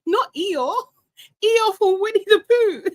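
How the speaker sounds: high, laughing Eeyore from Winnie the Pooh; amused correction. Real, not acted. Host correcting a slip, amused. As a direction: correct yourself through giggles.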